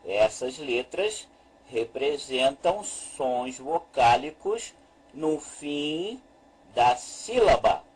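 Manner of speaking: measured teacher's restatement with pauses between chunks; slow deliberate repetition. Shown as a demonstration. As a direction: repeat slowly, phrase by phrase.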